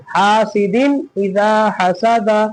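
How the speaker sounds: "हासिदिन इजा हसदा" slowly, with the n clearly sounded; measured model reading, n unheld in "हासिदिन इजा हसदा"; clear nun. Shown as a demonstration. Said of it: "जाहिर करके पढ़ेंगे".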